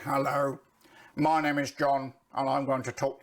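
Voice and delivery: droning, level-pitched delivery; monotone. Shown as a demonstration. Coach shows learners how not to open a video, monotone. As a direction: read it out on one unchanging note. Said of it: "avoid the monotone. If I started this video by saying".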